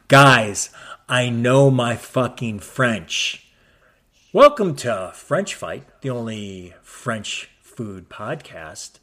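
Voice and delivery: loud, slow, proud bragging; loud mock boast. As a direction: brag about it loudly. Bragging loudly about French.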